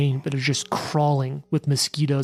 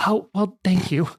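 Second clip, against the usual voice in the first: relieved barber; 2 semitones higher than usual. Acted. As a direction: pour out thanks in a rush. Barber hosting heroes.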